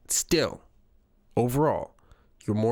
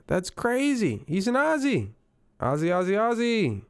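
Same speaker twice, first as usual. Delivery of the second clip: excited squeal; 9 semitones higher than usual. Real, not acted. Learning Rob Rosenberg is Australian.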